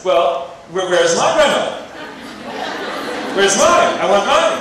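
put-on high, loud little kid begging for a grandmother; kid's whiny plea. Kid in class demanding a grandmother in the box, high and loud. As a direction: whine like a jealous kindergartner. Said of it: "One kid says".

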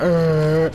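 mock driver noise. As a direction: imitate a clueless driver going "uh". Imitates the clueless driver.

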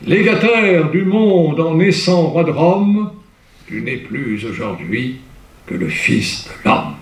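solemn fading verse close; declaimed verse ending. Shown as a demonstration. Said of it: "Et ça finit".

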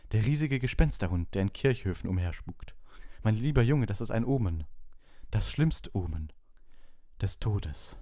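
high, loud, ominous prophecy; doom-laden seer. A narrator's reading. Trelawney to the class, proclaiming doom high and loud. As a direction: proclaim the death omen dramatically.

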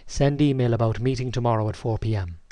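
measured, deliberate dictation to software. Shown as a demonstration. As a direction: speak each word clearly for the computer. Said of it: "here's the first command".

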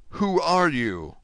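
slow, high, emphatic demand; urgent cry. A narrator's reading. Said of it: "cried Dante".

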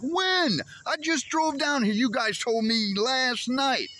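exasperated disbelief. Retold or imitated. To the metal detector guy after the long drive, exasperated disbelief. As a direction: blurt it out, stunned it's canceled again. Exasperated retort at canceled court.

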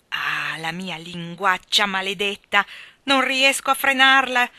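loud anguished wail, rising; moaning. Acted. Jo curses her own tongue, anguished loud wail. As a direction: groan at your own tongue. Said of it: "gemeva Jo".

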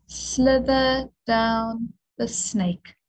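slither down the snake, slow and sing-song; rhyme for the letter. Shown as a demonstration. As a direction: draw out slither down the snake like a chant.

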